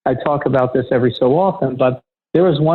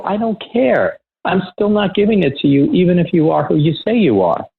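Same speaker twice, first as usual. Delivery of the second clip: higher, flat refusal; retold defiance; 5 semitones higher than usual. Refusing the facility manager over the guard's name, defiant and higher. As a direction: dig in and refuse to give in.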